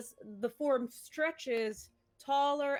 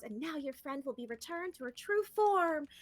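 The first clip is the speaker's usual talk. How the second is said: lightly voiced Cordial; 5 semitones higher than usual. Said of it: "Pretty good cordial".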